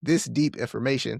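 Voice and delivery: talking around a retainer; wearing a retainer. Real, not acted. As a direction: retainer slurring the words. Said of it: "sorry, my retainer's going crazy today".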